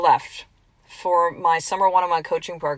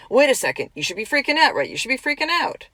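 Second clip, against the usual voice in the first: mock panic; 6 semitones higher than usual. Fear voiced in a story.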